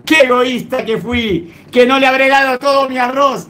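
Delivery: a touch of weeping, lightly acted; mild crying. Beggar regretting his one grain, mildly tearful. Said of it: "Se puso a llorar diciendo".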